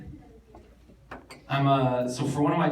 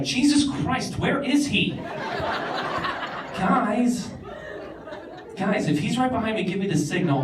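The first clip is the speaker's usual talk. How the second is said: panicked whisper-shout; 7 semitones higher than usual. Retold or imitated. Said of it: "Everyone in class is like".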